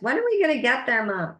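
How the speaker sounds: mock kid whining from the back seat, quick; a hint of a whiny child asking mom. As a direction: lightly imitate a bored kid on a car trip. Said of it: "It's just a bunch of whining".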